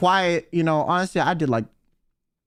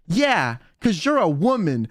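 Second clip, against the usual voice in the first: imitating a flat, dead-serious reply; 2 semitones lower than usual. Rosemi tells Kyo in earnest, dead serious. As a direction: say it straight, with no hint of a joke. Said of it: "so seriously".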